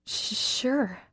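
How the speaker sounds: flustered, high little sure; nervous stammer. Acted. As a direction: trip over the first sound, breathless. Nervous girl before a kiss.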